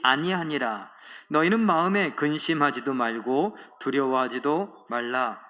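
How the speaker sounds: slow, measured reading of scripture. Acted. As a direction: read the verse aloud with the congregation, unhurried. (느리고 또박또박한 성경 낭독)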